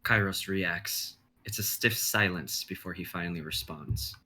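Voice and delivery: measured dramatic narration; stage directions read. Acted. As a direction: set the scene like a script reading.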